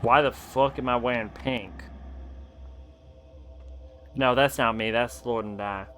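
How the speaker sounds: relaxed everyday Californian accent. Real, not acted. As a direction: talk in a casual Californian accent. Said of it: "speak in my regular Californian accent".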